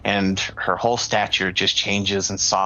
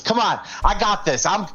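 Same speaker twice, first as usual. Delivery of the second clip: higher, eager little braggart voice; a small goblin puffing himself up, sure he'll win; cocky goblin; 7 semitones higher than usual. Acted. Little goblin boasting to the crowd before the match, higher and eager.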